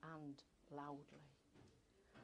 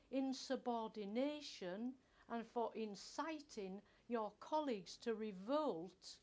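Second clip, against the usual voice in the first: stern boss's dismissal; 3 semitones higher, 6 dB louder than usual. Acted. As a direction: boss reading out her offences, loud and stern. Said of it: "I remember his accusations".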